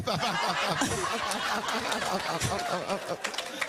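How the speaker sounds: long amused laugh rising up; a real happy laugh; burst of laughter. Real, not acted. Laughing while telling testimony.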